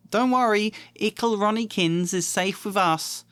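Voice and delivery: high mocking reassurance; teasing twin. Twin teasing Ron to mum, high and mocking.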